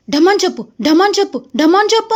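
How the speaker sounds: imitated whiny demand; building mock nagging. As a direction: mimic a pestering girl, rising. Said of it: "అని నన్ను అడుగుతానే ఉంది".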